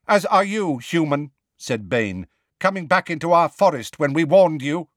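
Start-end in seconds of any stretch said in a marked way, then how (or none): 0.1-1.3 high sharp centaur retort; hostile centaur. A narrator's reading. Bane retorts to Hagrid. 2.6-4.9 raised, accusing centaur voice; hostile centaur. A narrator's reading. Bane warns Hagrid.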